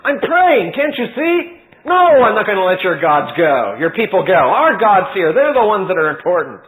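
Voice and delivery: disturbed Pharaoh scolding Moses; greatly disturbed. Acted. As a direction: scold Moses for interrupting prayer. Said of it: "greatly disturbed".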